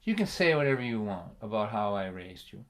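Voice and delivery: low, soft, close menace; dad leaning close to his son, quietly. Retold or imitated. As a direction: lean in and say it softly.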